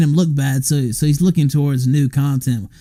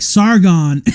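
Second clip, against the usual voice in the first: mild mock call; 4 semitones higher, 4 dB louder than usual. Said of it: "finally they're like".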